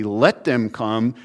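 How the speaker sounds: slow "Let them come" with a rise on "Let"; emphatic invitation. Shown as a demonstration. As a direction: stress "Let" slowly and warmly.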